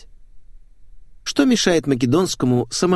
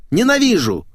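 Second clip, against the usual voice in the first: higher and louder still, spat out fast; exploding in hatred; hateful outburst; 11 semitones higher, 4 dB louder than usual. Acted. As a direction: blurt it out as the hatred boils over. Critic rants about rival writer.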